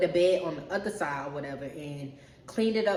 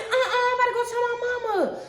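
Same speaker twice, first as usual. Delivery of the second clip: laughing threat; 6 dB louder than usual. Retold or imitated. Threatens to tell mom.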